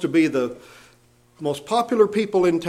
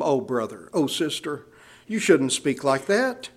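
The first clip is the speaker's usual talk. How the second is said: gently pleading; 3 semitones lower than usual. Acted. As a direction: gently beg a brother to stop. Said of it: "He says, we beg them".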